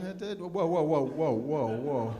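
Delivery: hammed-up hooked viewer; old man watching infomercials. Comic acting himself hooked on an infomercial, mock alarm. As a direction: get sucked in by the TV pitch. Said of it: "Now I'm like".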